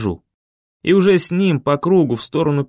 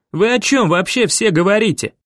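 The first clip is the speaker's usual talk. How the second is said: exasperated shout; 7 semitones higher than usual. A narrator's reading. Boy furious at the adults' talk, exasperated shout. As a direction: blow up at all of them. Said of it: "выходя из себя".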